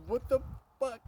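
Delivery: high-pitched retold shock; terrified disbelief. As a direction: re-enact the stunned kid left alone. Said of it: "just terrified".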